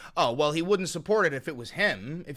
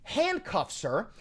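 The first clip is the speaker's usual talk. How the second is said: louder, slow, hammering each fucking blow; angry rant; 4 semitones higher, 3 dB louder, slower than usual. Real, not acted. Streamer to chatter Vincent, describing the raid, slow furious yelling. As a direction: rage building as the raid unfolds.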